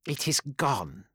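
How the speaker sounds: slow, detached answer; distant seer voice. Acted. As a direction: speak as if in a trance. Ashokai corrects him.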